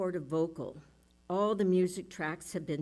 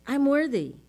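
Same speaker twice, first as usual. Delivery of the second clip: higher, louder self-assertion; defiant; 4 semitones higher, 6 dB louder than usual. Retold or imitated. Telling the inner critic to back off, defiant. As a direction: push the critic away. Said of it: "And I say".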